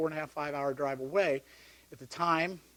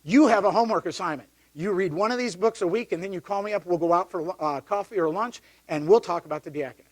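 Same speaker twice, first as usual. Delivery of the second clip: imitating a bossy priest, louder; commanding priest; 3 semitones higher, 7 dB louder than usual. Priest slapping books on the desk, giving orders loudly. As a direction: hand out the homework like an order. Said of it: "And he says".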